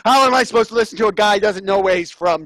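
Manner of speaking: put-on Boston accent, agitated. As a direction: rant in a comic Boston accent. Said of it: "I don't know about my Boston accent".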